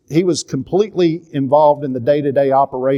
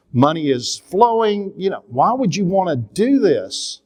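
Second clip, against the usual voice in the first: slow, drawn-out disbelief, pitch pushed up; mock-outraged father in his own head; incredulous inner voice; 4 semitones higher, slower than usual. Father imagining scolding his son over quitting, in slow incredulous disbelief. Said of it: "I'm going".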